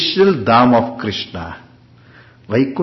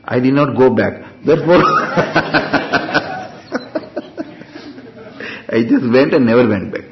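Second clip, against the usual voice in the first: laughing while quoting. Retold or imitated. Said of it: "I said".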